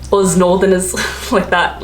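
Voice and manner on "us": "us" said with a rounded vowel and a z, like "ooze"; northern "us". Shown as a demonstration. Showing the northern noise, "us" said close to "ooze". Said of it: "like, ooze noise".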